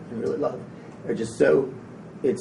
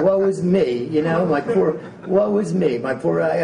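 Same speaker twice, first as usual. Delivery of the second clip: loud, drawn-out woe-is-me wail; mock moaning; 4 semitones higher, 5 dB louder, slower than usual. Speaker mimics a complainer's email to the audience, mock moaning. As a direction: moan it in mock self-pity, louder and laboured. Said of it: "bitching and moaning".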